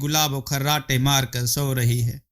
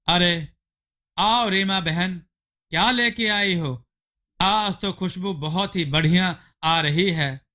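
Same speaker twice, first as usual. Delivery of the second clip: lightly higher, eager wife voice; eager hungry wife; 4 semitones higher than usual. Acted. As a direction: coax him to hurry, greedy and pleased. Gulabo greets Rima.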